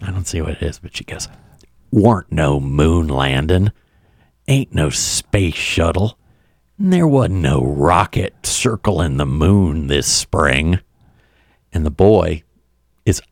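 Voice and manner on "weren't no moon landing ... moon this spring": put-on loud stage whisper. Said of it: "whispers in a loud way".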